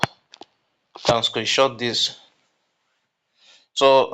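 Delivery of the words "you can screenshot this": drawn out slowly, leaning on can; slow down so they take note; "You can screenshot this" said slowly, stressing "can"; slow, emphatic. Real, not acted. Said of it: "It's very important for you to take note of".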